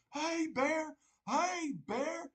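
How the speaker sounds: hey bear squeaked up high; a silly high hey bear, mocking hikers; mock high hiker call. Mocking frightened hikers, high squeaky call. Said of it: "people in the forest going".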